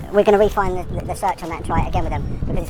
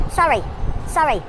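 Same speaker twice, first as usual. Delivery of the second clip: excited reveal; 6 semitones higher than usual. Real, not acted. Reveals the top county.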